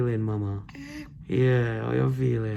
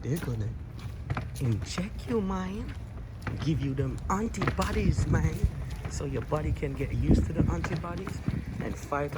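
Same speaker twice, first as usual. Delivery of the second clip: put-on higher, sing-song talk to a baby; playful baby talk; 4 semitones higher than usual. Dad explaining shots to his baby daughter, higher sing-song baby talk. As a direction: coax the baby gently, voice lifted up.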